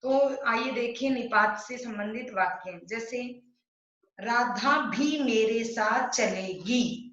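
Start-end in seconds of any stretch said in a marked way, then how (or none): 4.2-7.0 slow, with weight on भी; slow stressed example. Shown as a demonstration. Teacher reading a sample sentence to her class, stressing भी. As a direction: read it slowly, leaning on भी. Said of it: "तो इसमें क्या है? भी है ना".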